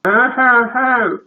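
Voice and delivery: high, slow mock wailing; boo-hoo theatrically, all overcome; weeping family. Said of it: "embrace and weep some".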